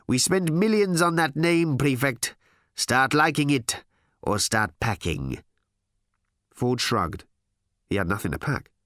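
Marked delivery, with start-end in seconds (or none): 0.1-5.4 emphatic executive, slowing to a warning; firm, heated corporate threat; threatening boss. Acted. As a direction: lay down an ultimatum. Harl threatens Ford.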